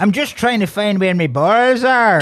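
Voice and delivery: hammed-up fake Irish accent; mock film Irish. Mocking lines they drop in the film, bad Irish accent. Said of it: "there's so many things they drop in".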